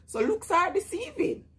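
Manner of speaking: still laughing. Real, not acted. Still laughing after story.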